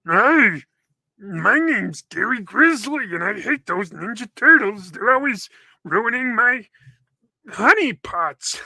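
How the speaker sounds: loud, slow, growly cartoon bear; hammed-up grizzly voice, words stretched; grizzly bear mutant. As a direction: roar it out as an aggrieved bear villain. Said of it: "I'd be a grizzly bear".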